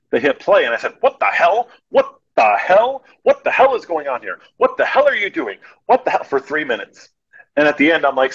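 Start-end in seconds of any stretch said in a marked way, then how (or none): 1.0-6.2 hammed-up exasperated yelling. Dubbing the cop's only line for the crew, hammed-up yelling. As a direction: ham up the line to prove it's absurd. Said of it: "just to show them how stupid and stupid that was".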